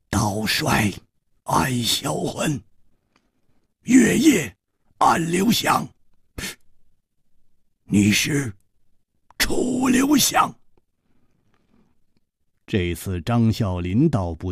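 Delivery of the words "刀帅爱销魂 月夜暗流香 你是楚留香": halting, drawn-out realisation, rising to a high name; dawning recognition. Acted. Killer works out who his opponent is, slow dawning recognition. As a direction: piece it together phrase by phrase, then climb.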